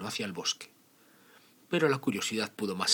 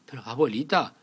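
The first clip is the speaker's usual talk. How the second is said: put-on little girl voice; 7 semitones higher, 8 dB louder than usual. Caperucita questions grandma.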